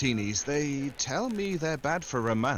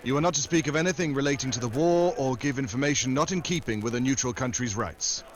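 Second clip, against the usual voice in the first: rattled off by rote. Shown as a demonstration. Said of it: "you will repeat what I have just told you".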